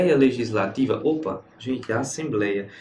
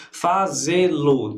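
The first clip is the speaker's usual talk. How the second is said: broken into syllables; 3 dB louder, much slower than usual. Shown as a demonstration. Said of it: "Por exemplo, cantar lá".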